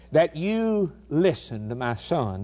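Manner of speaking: slow, overly courteous mock request from God; mock a timid God who only invites; mock polite suggestion. Preacher mocks a God who only invites, very slow and overly polite. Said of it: "God says".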